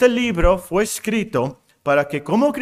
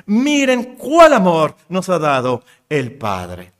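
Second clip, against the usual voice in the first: louder and slower exclamation; passionate; 5 dB louder, slower than usual. Shown as a demonstration. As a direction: proclaim with awe. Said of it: "sentía mucha pasión".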